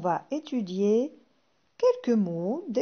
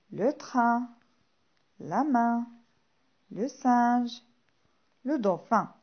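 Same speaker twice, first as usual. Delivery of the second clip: repeat-after-me reading. Shown as a demonstration. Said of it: "Répétons ensemble".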